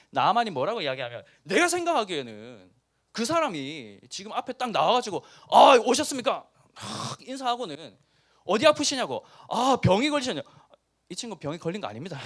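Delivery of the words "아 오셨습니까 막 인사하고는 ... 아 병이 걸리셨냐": loud, high fawning greeting; mock fawning host. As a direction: play the overeager healer welcoming a guest. Preacher acts out prophet greeting. (과장된 아첨하는 말투)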